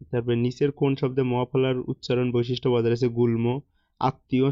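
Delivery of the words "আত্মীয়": আত্মীয় said "at-tiyo", with doubled t and no m; correct pronunciation demo. Shown as a demonstration. Teacher showing students the correct form, আত্মীয় split as "at-tiyo". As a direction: break আত্মীয় after the first t, at-tiyo. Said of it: "শুদ্ধ উচ্চারণ হচ্ছে".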